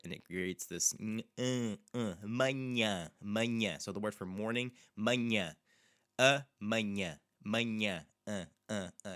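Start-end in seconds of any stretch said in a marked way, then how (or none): 2.0-3.8 "manhã" said slowly with a nasal ã; nasal a demo. Shown as a demonstration. Teacher modelling "manhã" for learners, nasal and slow. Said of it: "You should feel, like, a little bit of vibration". 5.0-8.0 "manhã" said slowly with a nasal ã; nasal a demo. Shown as a demonstration. Teacher modelling "manhã" for learners, nasal and slow. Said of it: "vibration back here".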